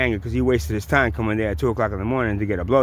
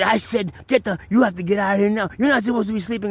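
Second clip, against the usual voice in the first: raised voice; 7 semitones higher than usual. Retold or imitated. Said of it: "the more his voice raised".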